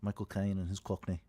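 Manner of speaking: lightly attempted Cockney accent; half-hearted Cockney; Michael Caine. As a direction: try a Cockney film-star accent. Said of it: "I'm trying to do Michael".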